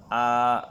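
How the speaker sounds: আ with a firm glottal catch; hard hamza a. Shown as a demonstration. Teacher shows a firm আ to students. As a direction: hit আ hard from the throat. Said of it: "শক্ত করে পড়তে হবে".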